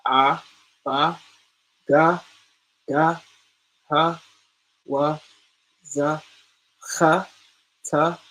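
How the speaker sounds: each letter sounded out with an ah; reciting the alphabet. Shown as a demonstration. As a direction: call out each letter clearly, like a teacher. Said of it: "we're gonna begin".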